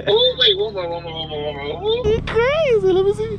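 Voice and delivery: high, hyped-up reaction; excited. Real, not acted. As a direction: yell with excitement. Excited about car rev.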